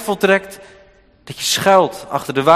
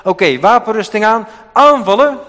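louder and higher, barked like a commander; mock battle order; 6 semitones higher, 7 dB louder than usual. Preacher voicing God as a war general, mock shouted order. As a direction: bark "aanvallen" as a charge order. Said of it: "de Heere God dus zegt".

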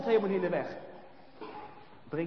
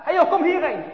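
loud, high yell; angry shout; 10 semitones higher, 12 dB louder than usual. Acted. Boys chasing Brinkie, angry shout. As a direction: yell after the fleeing boy.

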